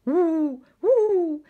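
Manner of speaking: high, loud giggling woo. A narrator's reading. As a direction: giggle it out with glee.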